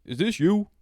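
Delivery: high, loud rising question; retold incredulous question. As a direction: play a guard who can't believe it. Retold agent questions him in disbelief.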